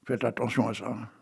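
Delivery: hushed whisper, like a secret; mock-confidential whisper; whispered warning. Warning aside after his tale.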